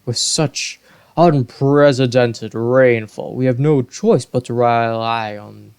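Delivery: a hint of a stern Zora king. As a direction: scold the advisor firmly. King scolds Muzu.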